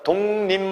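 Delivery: 독립 said with nasals as "동님"; teacher models 독립 as dong-nim; correct pronunciation demo. Shown as a demonstration. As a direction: say 독립 with both stops turned nasal. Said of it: "이렇게 발음해야 됩니다".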